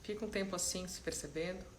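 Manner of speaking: calm, unhurried guidance with long silences; soft-spoken meditation leader, letting each instruction settle; guided meditation. Real, not acted. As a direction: ease them gently into stillness, leaving space between phrases.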